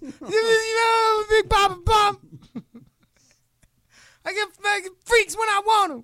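very high strained wrestler holler; over-the-top shouted boast; Scott Steiner. Retold or imitated. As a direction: brag like a crazed promo cutter. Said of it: "Oh, Scott".

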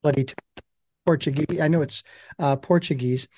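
crackly USB mic dropping out; mic cutting in and out. Real, not acted. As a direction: voice clicking in and out on a bad mic. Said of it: "your mic is clicking on and off 'cause you came in and out".

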